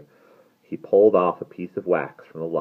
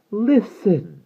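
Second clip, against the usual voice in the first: high, loud call for attention; high-pitched urgent cry; crying out as the vampire; 7 dB louder than usual. A narrator's reading. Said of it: "cried the vampire".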